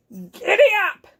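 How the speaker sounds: high, sharp cowboy holler; cowboy yell. Acted. Zork urges the cow to move, yelled. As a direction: yell it high to spur on a mount. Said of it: "yelled Zork".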